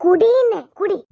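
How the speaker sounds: loud, high forcing command; angry order. Acted. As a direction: bark at her to drink. Mother-in-law forcing the drink. (கோபமாக உரக்க கட்டளை)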